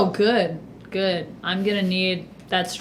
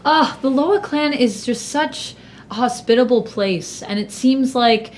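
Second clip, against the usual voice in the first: laughing. Acted. Bree flatters the host with a fake laugh. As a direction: fake laugh then sugary praise. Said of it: "Bree, like, laughs and is like".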